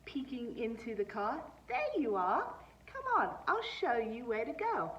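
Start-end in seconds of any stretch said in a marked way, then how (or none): 1.7-4.9 higher, louder bright welcome; cheerful principal. Acted. Principal leading girl inside, upbeat, higher voice. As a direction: sweep her along eagerly.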